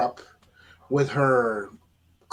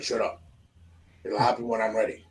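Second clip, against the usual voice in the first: voice changed quickly; 6 semitones lower, 6 dB quieter than usual. Retold or imitated. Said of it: "your voice changed quickly".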